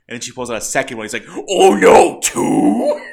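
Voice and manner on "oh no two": high, very loud hammed-up panic; mock alarm. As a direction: wail it as a villain caught out. Acting Palpatine seeing second lightsaber.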